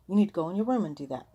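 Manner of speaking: mock scolding grandma. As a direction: snap at the boys to take it to their room. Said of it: "she started scolding them".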